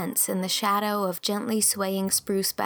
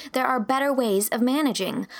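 raised, emphatic, earnest voice; impassioned conviction; 5 semitones higher, 4 dB louder than usual. A narrator's reading. Young teacher urging kinder discipline, with conviction. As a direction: insist on it earnestly. Anne argues against whipping.

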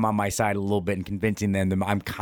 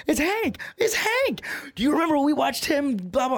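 put-on much higher, squealing voice of thrilled old-timers; giddy old men. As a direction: squeal it like eight-year-old kids seeing their hero. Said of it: "they turned into eight-year-old kids like this".

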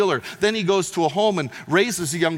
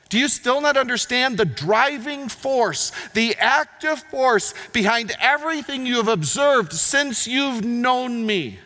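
urgent appeal; 7 semitones higher, slower than usual. Retold or imitated. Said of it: "His point is this".

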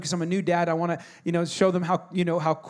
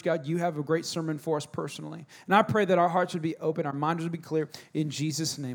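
prayer; 2 semitones lower than usual. Real, not acted. Pastor praying over the congregation, hushed and earnest.

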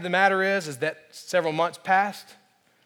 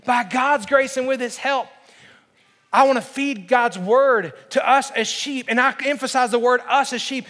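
higher, insistent pledge from the pulpit; impassioned preaching; 8 semitones higher, 5 dB louder than usual. Real, not acted. Pastor pledges to feed and lead his flock, impassioned preaching. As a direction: vow it to them with rising conviction.

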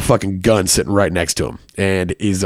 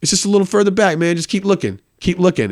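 menacing dealer; 8 semitones higher than usual. Retold or imitated. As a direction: draw him in like a movie villain. Dealer luring him deeper.

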